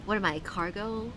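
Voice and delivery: lightly put-on Valley Girl accent reading. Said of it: "start reading Dagon with a Valley Girl accent".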